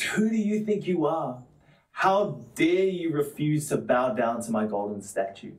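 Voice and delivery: acted-out royal outrage, demanding an answer; angry king. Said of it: "He's angry, and he says".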